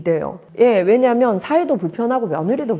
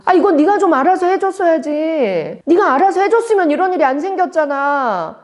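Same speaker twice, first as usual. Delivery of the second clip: higher, louder blaming rant at someone close; acted angry blaming; 8 semitones higher, 4 dB louder than usual. Anxious person blaming someone close, acted angry scolding. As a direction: snap at a loved one, acted out. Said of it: "이렇게 막 화를 내는 거예요".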